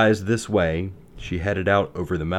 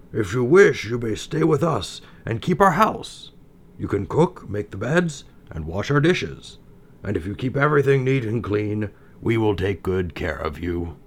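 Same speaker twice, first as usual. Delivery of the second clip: dwarf voice; 3 semitones higher than usual. Acted. Dwarves offer her home.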